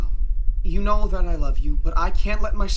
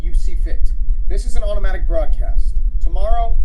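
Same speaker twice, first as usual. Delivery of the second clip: flat robotic radio voice; 5 dB louder than usual. Acted. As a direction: speak like a robot voice. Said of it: "a robotic voice comes from the radio".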